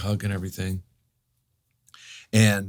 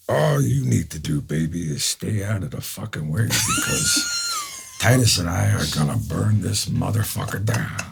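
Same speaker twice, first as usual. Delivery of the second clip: Al. Retold or imitated. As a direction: imitate a film star, stretching words into a cry. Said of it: "Al just looks at me and goes".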